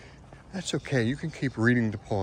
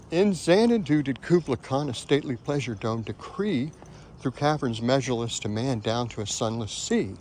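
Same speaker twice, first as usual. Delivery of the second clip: poem recitation. Shown as a demonstration. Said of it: "How do you say that poem?".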